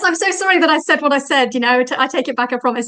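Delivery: half-joking plea to take it back; mock apology. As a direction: play a hint of a man hastily retracting. Voicing the man's retraction excuse.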